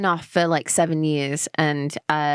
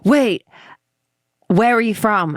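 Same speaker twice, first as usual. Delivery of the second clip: retold surprise; 4 semitones higher, 4 dB louder than usual. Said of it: "and people are like".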